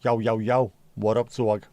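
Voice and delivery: a playful rapper hail; mock rapper greeting. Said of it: "one of those rapper fellas".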